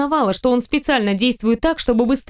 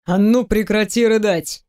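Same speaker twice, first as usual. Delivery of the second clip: lightly voiced man. Teasing the heroine about undressing, lightly lowered male voice. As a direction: tease her, playful and sure.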